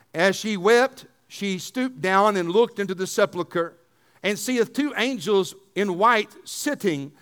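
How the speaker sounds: put-on measured reading of the old Bible text; scripture reading. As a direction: read the verses out steadily for the congregation. Reads scripture aloud.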